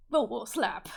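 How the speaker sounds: startled shout. Acted. Sudden fight outburst.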